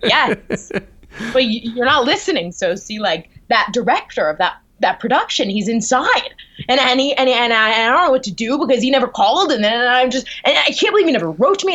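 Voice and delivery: acted panicky rush, gathering speed; mock-frantic venting, stumbling over the words; freaking out. Actor telling her roommate the director is inside, freaking out. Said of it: "just, like, freaking out".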